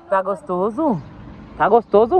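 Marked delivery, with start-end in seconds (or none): 1.6-2.2 excited coaxing. Real, not acted. Mother coaxing her son about the ice cream, loud and eager.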